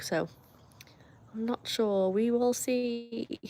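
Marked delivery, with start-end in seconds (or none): 2.1-3.4 slow and soft, drawn right out. Pretend. Streamer musing to chat about dinner, slow and soft. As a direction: let it stretch, softer, as if mulling it over.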